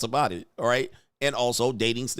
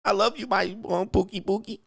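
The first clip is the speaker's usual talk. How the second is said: higher-pitched sugary pet-name cooing, put on; mock lovey-dovey woman; 6 semitones higher than usual. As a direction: imitate a woman sweet-talking her man. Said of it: "She's like".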